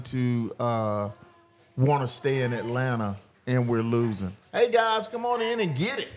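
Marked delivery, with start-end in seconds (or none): 4.5-6.1 higher, calling people over to join. Real, not acted. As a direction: wave passers-by in with your voice.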